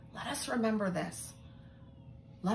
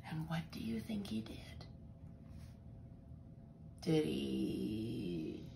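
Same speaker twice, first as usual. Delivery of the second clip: suspense whisper; 7 semitones lower, 9 dB quieter than usual. Real, not acted. Storyteller teasing the children with a secret, whispering. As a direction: lean in and whisper the question fast.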